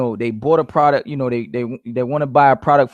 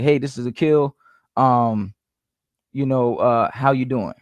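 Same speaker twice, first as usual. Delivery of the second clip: subdued, low-pitched phone opener; low, trailing greeting; 3 semitones lower than usual. Shown as a demonstration. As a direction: drop the voice for a dull opener. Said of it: "start with a low-pitched voice".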